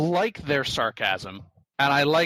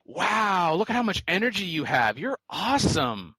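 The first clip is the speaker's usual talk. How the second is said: lightly hammed-up awe, higher pitch; mock amazement; 4 semitones higher than usual. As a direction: imitate an over-impressed flatterer. Acts out game AI's flattering message.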